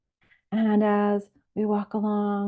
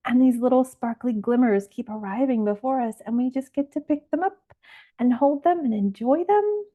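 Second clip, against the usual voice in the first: higher, lilting delight; gentle excitement; 4 semitones higher than usual. Acted. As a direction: share the wonder with a rising, delighted lilt. Acts delight at finding sea glass.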